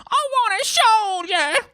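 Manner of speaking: very high, drawn-out tantrum wail; screaming small boy. A narrator's reading. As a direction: stretch out the child's loud demand. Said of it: "his screaming mouth".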